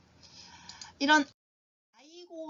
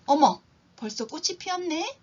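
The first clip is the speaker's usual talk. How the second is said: pleased surprise; 5 semitones higher, 4 dB louder than usual. Shown as a demonstration. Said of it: "example of 어머".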